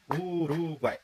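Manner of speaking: "Uruguai" broken slowly into separate syllables. Shown as a demonstration. Teacher showing the clap-while-speaking trick, "Uruguai" syllable by syllable. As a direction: say "Uruguai" drawn out, one beat per syllable. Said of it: "bater palma enquanto eu falo uma palavra".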